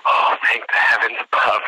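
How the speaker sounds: slow, drawn-out relief; relieved. Retold or imitated. Candidate learning his name was not called, slow relieved delivery. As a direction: let it out as a long thanks.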